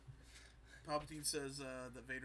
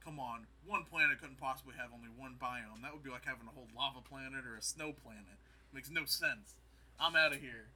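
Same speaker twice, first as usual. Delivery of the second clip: mock rant; 6 dB louder than usual. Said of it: "And he's like".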